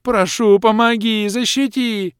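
high, loud desperate plea; high, loud creature begging. Acted. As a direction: beg for rescue. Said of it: "заплакал Водяной".

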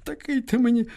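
high, crying goodbye; aunt weeping as she parts with the boy; tearful farewell. A narrator's reading. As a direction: say goodbye through tears. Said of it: "заплакала тихо ... зашепотіла гаряче".

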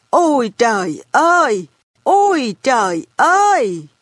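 thốt lên ngạc nhiên, giọng khác đi; bà cụ kêu lên. A narrator's reading. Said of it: "Bà kêu". (bà cụ kêu trời thảng thốt)

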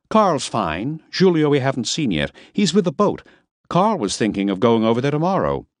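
composed hostess reporting news; Miss Lipp. A narrator's reading.

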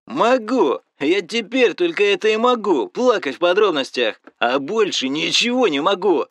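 loud, self-pitying rage; bitter shouting. Acted. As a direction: yell your misery at him. Injured friend keeps raging.

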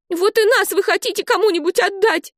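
put-on a hurt child lashing out; crying out. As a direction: Olive yelling at the grown-ups, high and hurt. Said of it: "закричала она".

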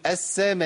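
long السماء ending in a puff of whispered air; breath after hamza. Retold or imitated. Teacher imitating a stopping mistake, breathy release on السماء. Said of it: "بعض الناس بيجيب همس، يجيب نفس".

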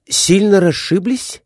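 high, sympathetic voice of a fussing gentleman; concerned question. A narrator's reading. A gentleman asks the fallen man, high concerned tone. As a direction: ask with sympathy. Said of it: "участливо спрашивал".

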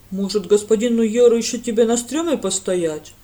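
loud sarcastic jab; mock the lad, outraged; indignant sarcasm. A narrator's reading. Jai scolds the lad, loud and sarcastic. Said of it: "возмутился Джай".

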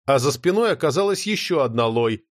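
ordinary delivery, nothing marked

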